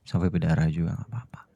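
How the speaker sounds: tender whisper. Acted. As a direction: hold out your hand with a whisper. Husband reassuring wife. (bisikan lembut menawarkan tangan)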